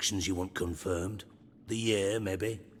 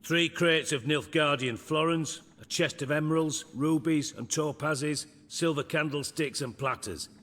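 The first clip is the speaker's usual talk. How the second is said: raised pitch listing; 7 semitones higher than usual. Acted. Boasting the stolen treasure list.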